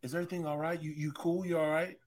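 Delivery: soft caring voice; gentle concern. Retold or imitated. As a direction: ask softly, tenderly. Imagined gentle wife question.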